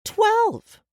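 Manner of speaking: loud, very high, drawn-out cry; shouted exclamation. A narrator's reading. Woman repeats the boy's age, shouted disbelief. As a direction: exclaim it, pitch leaping.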